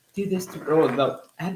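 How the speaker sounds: lightly mimicked video voiceover; imitated TikTok voice. Cohost mimicking viral food-hack videos, light voiceover voice. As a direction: put on a slight TikTok hack narrator. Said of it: "Oh, that, that voice".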